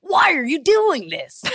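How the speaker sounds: high, slow, melodramatic dub voice; dubbed anime boy. Acted. Co-host parodying anime dub dialogue, high melodrama. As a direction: stretch it out like a badly dubbed cartoon. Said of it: "why would a twelve-year-old boy talk like that".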